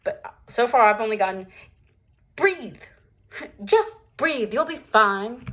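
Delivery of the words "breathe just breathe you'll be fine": dismissive imitation. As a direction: mimic someone brushing off a panic attack. Mimicking unhelpful advice she receives.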